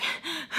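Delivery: soft, high gasping for air; imitated panting. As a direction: pant as if catching your breath. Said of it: "trying to catch her breath".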